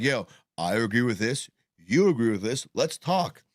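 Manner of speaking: talking around a wad of tobacco; words slurred by chew in mouth; mouth full. Real, not acted. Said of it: "I got a little, uh, tobacco in my mouth".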